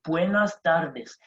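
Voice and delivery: slow, careful "buenas tardes" with every letter sounded; pronounced as written. Shown as a demonstration. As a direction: model "buenas tardes" slowly, just as it is spelt. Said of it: "it's the way it's going to be pronounced".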